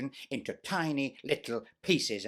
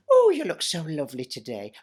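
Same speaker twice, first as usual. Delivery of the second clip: mock Cinderella; 3 semitones higher, 5 dB louder than usual. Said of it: "she'd say to me".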